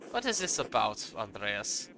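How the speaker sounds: put-on German-accented monk's question. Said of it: "I gave him a German accent".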